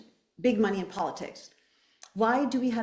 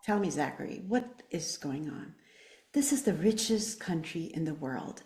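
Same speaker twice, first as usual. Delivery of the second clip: holding back tears; 4 semitones lower, 4 dB quieter than usual. Real, not acted. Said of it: "going to try not to cry".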